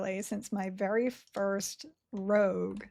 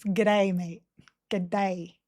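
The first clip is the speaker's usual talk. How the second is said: broad Australian A in G'day; Aussie accent; much slower than usual. Shown as a demonstration. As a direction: lean on the Aussie vowel. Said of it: "without sounding Aussie".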